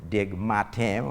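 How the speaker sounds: Diego Martin as French "deg mar-TAN", final n unsounded; French pronunciation. Shown as a demonstration. Comedian showing French influence in names, Martin pronounced in French. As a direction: say Martin the French way, nasal ending. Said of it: "in French".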